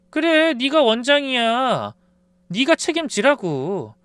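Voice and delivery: wife taunting her husband slowly; mocking. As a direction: drag it out to mock him. Wife mocks husband, slow.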